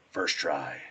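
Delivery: lightly growled cartoon superhero; Lego Batman. Quoting a Lego movie hero, gruff voice. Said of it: "What is the Lego Batman?".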